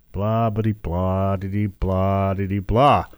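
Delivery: low, mocking gibberish; lazy sing-song blah blah; dismissive blah blah. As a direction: brush off their chatter with nonsense. Mocking critics' endless complaints.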